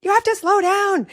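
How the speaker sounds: anxious high-pitched scolding. Retold or imitated. Mom retelling warning her speeding daughter, anxious high-pitched voice. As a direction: re-enact a heated passenger's plea. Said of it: "high, like, pitch voice".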